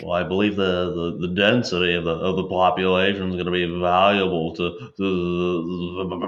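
pompous nerdy science man; nerd voice. Acted. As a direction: rattle off big science words like a nerd. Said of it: "science man saying science things".

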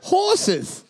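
laughing through the word. Real, not acted. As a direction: crack up while saying it. Laughing at the answer.

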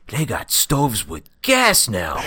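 slow, drawn-out tough-guy voice; a lightly voiced cartoon mobster bragging; cartoon gangster. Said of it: "why do we always sound like cartoon gangsters".

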